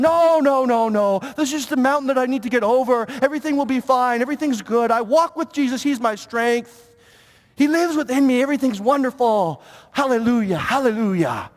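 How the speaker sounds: lightly hammed-up pious denial; saintly mode. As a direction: cover trouble with mock-holy cheer, drawing out the hallelujahs. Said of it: "we step into the saintly mode".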